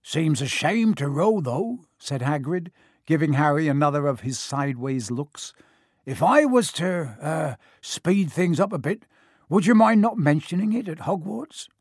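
lightly voiced big, bluff giant; a gruff, friendly giant, lightly done; Hagrid voice.

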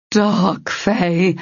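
growled ogre voice; growling. A narrator's reading. Ogre advancing on the unicorn, growl. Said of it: "the ogre growled".

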